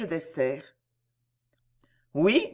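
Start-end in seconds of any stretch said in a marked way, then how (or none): 2.1-2.5 a breathless whispered oui; whispered yes. A narrator's reading. The duke to the countess, whispered sly agreement. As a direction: breathe it, almost no voice.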